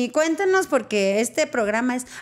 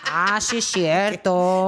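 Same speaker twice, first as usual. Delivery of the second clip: imagined audience realization; 3 semitones lower, much slower than usual. Retold or imitated. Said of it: "la gente va a decir".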